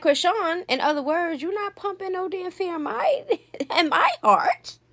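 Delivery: laughing through a high, defiant quote; high voiced defiance, breaking into a laugh; defiant mock quote. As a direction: play the niece, unafraid. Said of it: "So she's like".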